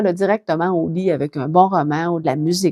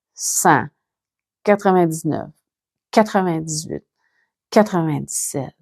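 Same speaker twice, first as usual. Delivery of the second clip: compte lentement, longues pauses entre les nombres; égrène le décompte sans te presser; compte à rebours lent. Shown as a demonstration. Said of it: "compte à rebours, très, très, très lentement". (décompte lent pour s'endormir)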